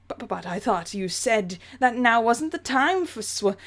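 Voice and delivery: stammering English gentleman; object, flustered, in a put-on English accent; mildly hammed English accent, confused; the speaker's fake English accent. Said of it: "let's do that fake English accent justice".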